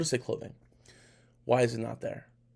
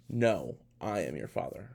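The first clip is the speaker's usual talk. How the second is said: Darth Vader; 4 semitones lower, 3 dB quieter than usual. Retold or imitated. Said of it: "the line is".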